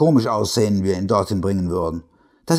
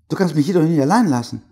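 pleading; 6 semitones higher, faster than usual. Acted. Frightened wife pleads.

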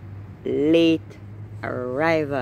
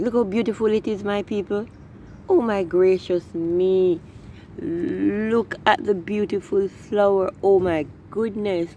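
excited; 4 semitones higher than usual. Real, not acted. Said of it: "I am so excited".

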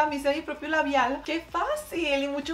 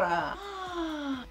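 high, soft gasp of delight; 5 semitones higher, 5 dB quieter than usual. Real, not acted. Vlogger seeing the homemade blush, delighted gasp. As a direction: gasp in pleased surprise.

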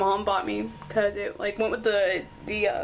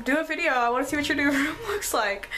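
lightly voiced eager friend quote, higher pitch; imitating friend; 5 semitones higher than usual. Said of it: "she was like".

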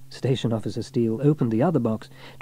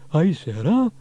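calling out; 10 semitones higher, 5 dB louder, slower than usual. A narrator's reading. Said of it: "he called".

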